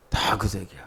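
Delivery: quiet aside. Real, not acted. Preacher repeating the colour hint as a soft aside. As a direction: drop the voice on 그 색이요 like a private joke.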